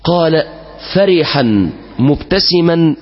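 slow, measured classical Arabic storytelling; solemn story narration. A narrator's reading. Preacher telling worshippers an old tale, slow and solemn. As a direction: draw the congregation into the tale.

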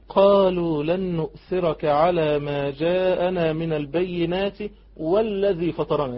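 slow, drawn-out, even recitation; steady recitation. Acted. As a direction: recite the reply with unhurried resolve. Recites the sorcerers' reply. (تلاوة هادئة ممدودة بثبات)

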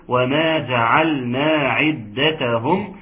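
slow, measured recitation; Quran recitation. Shown as a demonstration. Teacher recites the next verse for students, slow tajweed recitation. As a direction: recite slowly, each syllable given its length.

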